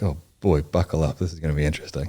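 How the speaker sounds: put-on lightly done thick German accent; a hint of an old German professor's accent. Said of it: "he had this thick German accent".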